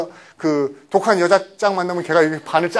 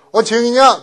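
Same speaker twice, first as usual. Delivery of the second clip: casual greeting; 5 semitones higher, 7 dB louder than usual. Acted. Caller greets friend casually.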